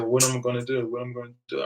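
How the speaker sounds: mild mock panic, pleading for advice; retold panic. Friend asks him how to fix it, mildly panicked. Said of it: "really panicking and stuff".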